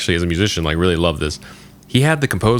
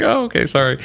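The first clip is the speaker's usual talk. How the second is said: higher, whiny sorry; mock whimpering apology; 9 semitones higher than usual. A lightly played frightened coworker apologizing to Arthur. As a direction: beg like a scared man. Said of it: "He starts crying".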